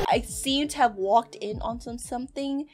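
low, soft, wary remark; subdued understatement. Real, not acted. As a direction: say it quietly, backing away. Dry comment after scare.

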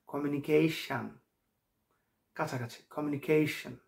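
কমিউনিকেশন ending midway between "shan" and "shon"; in-between vowel. Shown as a demonstration. Teacher showing learners the middle sound, neutral ending. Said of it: "বলতে হবে দুইটার মাঝামাঝি".

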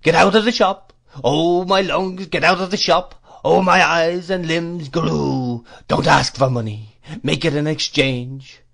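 put-on high, loud shouting old madman; crazed old dealer's furious singsong bellow; wailing outburst. A narrator's reading. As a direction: shout the orders and stretch out the cries. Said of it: "delivered in a sort of tune".

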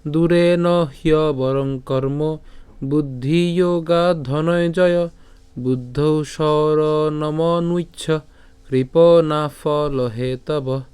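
very slow, drawn-out chant of the full verse; slow Sanskrit recitation. Shown as a demonstration. Teacher repeating the Sanskrit verse slowly for students. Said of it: "আমি আবার বলছি".

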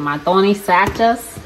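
Tony Sachas said with Southern vowels; Southern accent. Real, not acted. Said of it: "y'all hear my accent".

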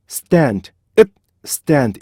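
읒 stopped short, then stand; T stuck on the front. Shown as a demonstration. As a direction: put a clipped 읒 right before stand. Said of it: "T를 붙여서".

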